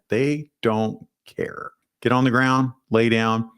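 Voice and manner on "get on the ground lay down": cops ordering everyone down, mild mock yell; mock police command. Half-hearted police shout. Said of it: "they're yelling".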